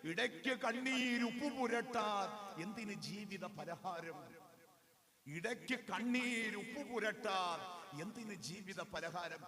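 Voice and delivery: slow, drawn-out verse; measured poetic delivery; poem recitation. Acted. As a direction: recite the lines slowly, lingering on the words.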